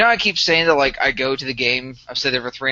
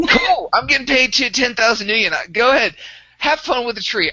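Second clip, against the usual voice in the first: higher, breezy mock indifference; in character, not caring; 8 semitones higher, 3 dB louder than usual. Gunslinger waving off teammate fixing a tree, breezy mock indifference. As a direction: toss it off like a bored hired gun. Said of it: "And I'm in character".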